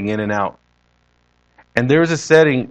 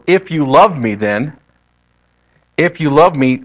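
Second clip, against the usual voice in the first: "If you love me" said deliberately, leaning on "love"; emphasized condition; 2 semitones higher, 4 dB louder than usual. Retold or imitated. Preacher voices Jesus pressing Peter, emphatic stress on "love". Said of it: "the thing that he emphasized".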